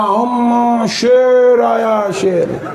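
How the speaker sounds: high, drawn-out teasing "शेर आया"; children squealing a warning, half joking; mock alarmed kids' call. Kids warning mother the father has come, mock alarm.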